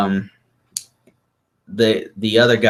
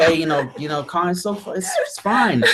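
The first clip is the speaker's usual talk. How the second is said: calming her down; 9 semitones higher than usual. Retold or imitated. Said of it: "I have to calm her down".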